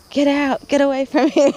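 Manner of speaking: high, loud mock dismissal; retold angry outburst. Telling the archangel to leave, acted angry outburst. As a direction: act out shooing someone away loudly.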